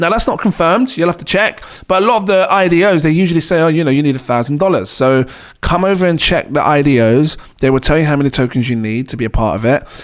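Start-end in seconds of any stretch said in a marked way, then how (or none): none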